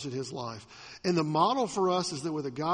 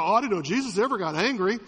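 mock surprise; 2 semitones higher, 5 dB louder, faster than usual. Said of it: "Now you go".

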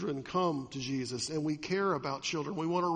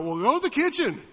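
higher, louder exasperated dad; tired parent; 6 semitones higher, 6 dB louder than usual. Retold or imitated. Father answering child at four am, mock exasperated. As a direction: brush the kid off to the kitchen. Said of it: "And you go".

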